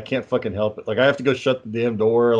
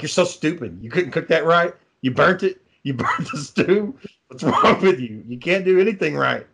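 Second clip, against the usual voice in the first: mock nagging wife, pitched up; raised-pitch retold scolding; bitchy berating; 4 semitones higher than usual. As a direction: imitate a wife tearing into her husband's cooking. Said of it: "she used to be a bitch to him".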